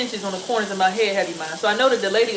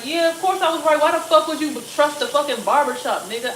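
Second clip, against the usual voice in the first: scolding; 5 semitones higher, 4 dB louder than usual. Real, not acted. Scolding her son.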